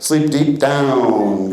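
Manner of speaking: very slow, drawn-out sleep command; hypnotic sleep command. Real, not acted. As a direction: ease them down into sleep, word by slow word.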